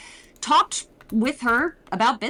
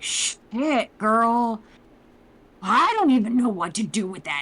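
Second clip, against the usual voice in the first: Marcelia's sassy voice; 4 dB louder than usual. Retold or imitated.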